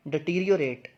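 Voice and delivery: डिटीरियोरेट in full, "di-teer-i-o-rate"; careful model of डिटीरियोरेट, falling at the end; correct pronunciation. Shown as a demonstration. Teacher models a new word for learners, correct pronunciation. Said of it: "इसकी जो सही pronunciation है".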